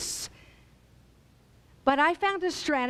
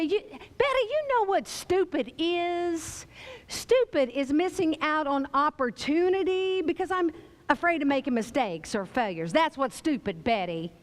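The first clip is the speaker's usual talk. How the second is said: snapping back. Retold or imitated. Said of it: "You snap back at Betty and you say".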